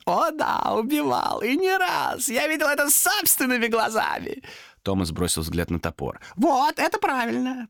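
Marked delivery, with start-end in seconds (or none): 0.0-4.4 very high, emphatic creature voice; gleeful demon. Acted. Demon tells Томас he witnessed killings, gleeful. 6.4-7.7 high, drawn-out raspy approval; croaking demon. A narrator's reading. Demon sees Томас eye the axe, croaking. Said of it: "прохрипел демон".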